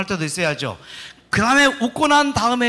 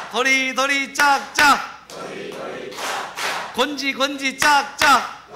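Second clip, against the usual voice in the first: kindergarten teacher voice; 8 semitones higher, slower than usual. Acted. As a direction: call out the clapping game like a kids' teacher. Leads clapping game.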